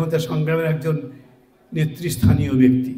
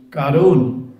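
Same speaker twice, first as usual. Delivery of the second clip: put-on loud, slow, every word cut apart for a deaf old man; loud and clipped apart; 4 dB louder than usual. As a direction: spell it out loudly, word by word. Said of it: "আরো জোরে জোরে এবং কেটে কেটে বললাম". (জোরে জোরে, কেটে কেটে বলা)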